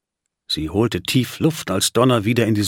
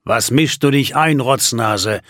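mild growled taunt. Acted. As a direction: sneer the insult. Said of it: "knurrte Simon ihn an".

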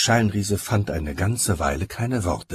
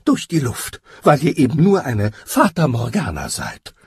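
high, sorrowful agreement; troubled assent; 6 semitones higher, 5 dB louder than usual. A narrator's reading. Giant humouring what he thinks is a mirage, troubled. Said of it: "nickte der Scheinriese bekümmert".

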